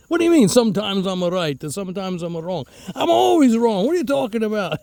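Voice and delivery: playful hammed-up Italian-accent outrage; mock Italian indignation. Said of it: "with a fake Italian accent".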